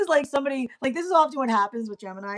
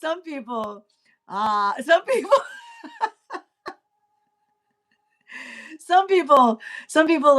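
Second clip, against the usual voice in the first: laughing restarts, higher; 7 semitones higher, 5 dB louder than usual. Real, not acted. Reader failing to finish the line, laughing. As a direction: keep breaking up on the words.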